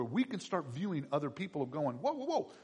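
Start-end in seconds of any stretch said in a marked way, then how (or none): 2.0-2.5 high laughing whoa; light amused interruption. Acted. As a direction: brush off their pity with a laugh. Voicing calm believer.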